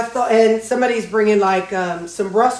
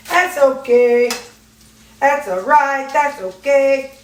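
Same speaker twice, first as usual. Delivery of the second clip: higher, drawn-out self-reassurance; self-consoling; 5 semitones higher, 4 dB louder, slower than usual. Real, not acted. Cook to self after breaking a yolk, self-consoling. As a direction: shrug off a mishap, drawing out each phrase higher.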